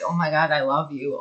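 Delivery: softly mumbled fan gushing; mock mumbling. Fan imagining meeting her idol, a singer, lightly mumbled. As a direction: mumble it, a little under your voice. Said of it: "like, mumbling".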